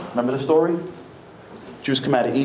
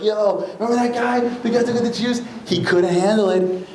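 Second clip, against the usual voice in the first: high, lightly voiced gossip; mock the God who quit; a hint of smirking locals; gossiping Canaanites; 7 semitones higher than usual. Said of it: "everyone in Canaan's gonna be like".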